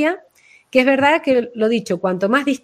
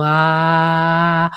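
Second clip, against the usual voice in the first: heart-centred ah; 4 semitones lower than usual. Shown as a demonstration. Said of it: "en el caso de Laura es como".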